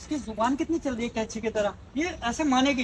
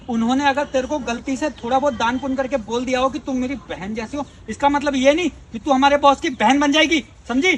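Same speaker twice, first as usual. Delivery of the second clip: scornful scolding; 5 dB louder than usual. Acted. Employee scolds woman scornfully.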